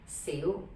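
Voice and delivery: "Xiu" rising from mid pitch. Shown as a demonstration. Teacher breaks down Bruce Lee's name, mid rising "Xiu". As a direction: lift "Xiu" upward from the middle. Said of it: "mid rising".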